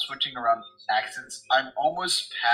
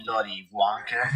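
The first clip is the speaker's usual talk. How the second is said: put-on British accent; 3 semitones lower, 4 dB louder than usual. GM mocking accent switching.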